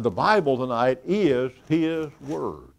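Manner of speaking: IS set out firmly before His word; emphatic IS. Real, not acted. Preacher states a basic precept, emphatic IS. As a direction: lean on IS in measured stress. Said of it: "I have to emphasize to myself".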